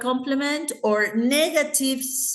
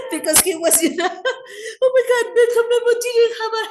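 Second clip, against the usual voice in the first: high, squealing laughter through the words; real cracking up, barely getting words out; helpless laughter; 13 semitones higher, 5 dB louder, faster than usual. Real, not acted. Teacher sees headless student on Halloween, helpless high laughter.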